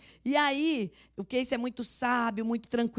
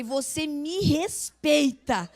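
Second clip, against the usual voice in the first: slow, drawn-out, mock-offended put-down; playful indignant rebuke, slowed right down; mock stern retort; 4 semitones higher, much slower than usual. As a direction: stretch every word like a haughty warning. Wife retorts to teasing husband.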